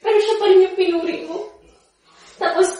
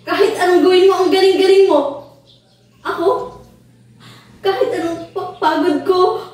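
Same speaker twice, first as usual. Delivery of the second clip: louder, resentful praise; bitter outburst; 4 dB louder than usual. Acted. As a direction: throw the compliment back at her. (mapait at malakas na sumbat)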